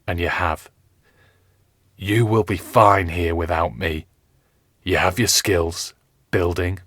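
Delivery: gather strength and speak firmly; wounded captain. Acted. Captain Smith telling his page and Richard, lightly voiced weary firmness.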